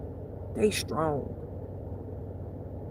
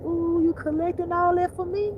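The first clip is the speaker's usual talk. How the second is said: mock devil glee; 8 semitones higher than usual. Devil gloating.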